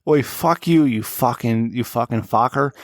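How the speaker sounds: mock Australian cursing, Irish-sounding; bad Australian accent. Host imitating Maddie from Australia, muddled Australian accent. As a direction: have a drunken go at Australian. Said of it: "Was that Irish?".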